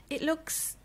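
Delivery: breathed word, no voice; whisper. Acted. Whispers insult about the house.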